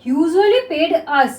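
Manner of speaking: very slow, each word drawn out; slow dictation reading. Shown as a demonstration. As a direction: read it out slowly for the class to write. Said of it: "next देखिए".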